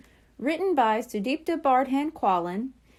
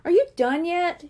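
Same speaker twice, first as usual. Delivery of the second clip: impatient; 7 semitones higher, 4 dB louder than usual. A narrator's reading. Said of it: "Coral wanted to get back".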